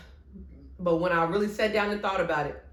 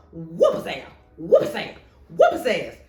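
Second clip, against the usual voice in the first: egging on a fight; 4 semitones lower, 6 dB louder than usual. Acted. Cheering on the beating, retold.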